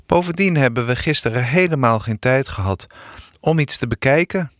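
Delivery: a touch of whining complaint; plaintive. Acted. Eefje backs up Sanne to pa, lightly plaintive. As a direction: complain mildly, rising at the end. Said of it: "vulde Eefje haar klagelijk aan".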